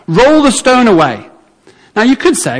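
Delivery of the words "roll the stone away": higher, drawn-out command; Jesus giving the command. Retold or imitated. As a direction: call the order out slowly, pitched up. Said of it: "he gets to the tomb and he says".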